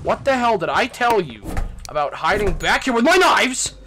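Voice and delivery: loud furious scolding; angry yelling. Acted. Yelling at hiding intruder.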